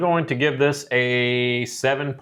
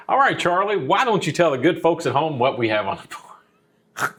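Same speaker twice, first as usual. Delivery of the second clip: radio voice; 4 semitones higher than usual. Acted. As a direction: announce it like a radio host. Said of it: "I got my radio voice on".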